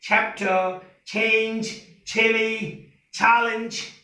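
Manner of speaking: level list, "Chapter" starting on a breathed छ; light aspirated ch. Shown as a demonstration. Teacher models English ch, careful pronunciation. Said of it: "English में छ".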